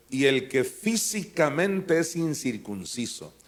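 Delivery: físicamente drawn out slowly and weighted; físicamente stretched and stressed. Shown as a demonstration. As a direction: lean hard on físicamente. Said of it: "enfatizamos la palabra físicamente".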